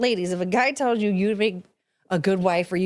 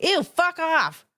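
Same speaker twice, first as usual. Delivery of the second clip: higher, slow drawn-out "ew"; disgusted brush-off; 7 semitones higher, much slower than usual. Retold or imitated. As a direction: drag it out in mock disgust. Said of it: "I'd be like".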